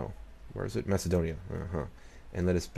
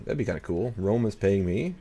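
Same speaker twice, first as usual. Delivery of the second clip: ordinary talk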